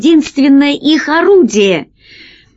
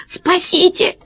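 high, strained croak for help; croaked plea; 8 semitones higher, 4 dB quieter than usual. A narrator's reading. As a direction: gasp it out as if pinned down. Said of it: "прохрипел весельчак У". (сдавленный хрип о помощи)

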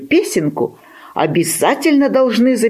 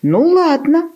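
high, indulgent give-in; pitying; 11 semitones higher than usual. A narrator's reading. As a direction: relent with a touch of pity, pitched high. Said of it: "пожалел щенка петух".

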